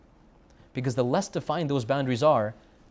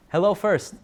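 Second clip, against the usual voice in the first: higher, louder "Hello first"; emphatic; 6 semitones higher, 6 dB louder, slower than usual. Acted. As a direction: call it out boldly. Preacher urging bold greeting.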